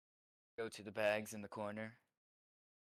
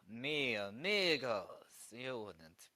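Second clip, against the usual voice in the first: masked hero's taunt; 3 semitones higher, 10 dB louder than usual. Acted. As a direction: open big on the address, then ease off into a cool challenge. Player voices his bandit hero.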